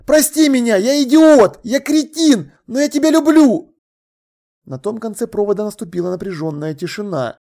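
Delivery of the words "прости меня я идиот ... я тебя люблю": loud, high pleading in bursts; frantic apology, raised voice; desperate shouting. A narrator's reading. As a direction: beg forgiveness at full cry. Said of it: "закричал я".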